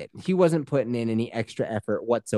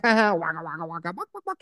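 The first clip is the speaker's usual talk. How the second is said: hammed-up silly chef; playful chef; 3 semitones higher, much faster than usual.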